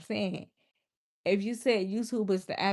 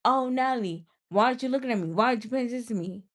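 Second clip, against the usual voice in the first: higher, louder whiny mock plea; mock clingy fan whining; mocking whiny viewer; 3 semitones higher, 4 dB louder, much faster than usual. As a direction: imitate a needy viewer begging for attention. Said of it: "you saying".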